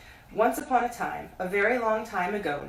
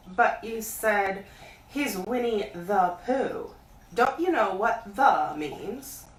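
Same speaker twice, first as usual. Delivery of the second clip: put-on child explaining; 2 semitones higher, slower than usual. Christopher Robin explaining impatiently.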